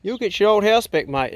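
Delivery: talking to the dog. Real, not acted. Telling dog Bruno his house back.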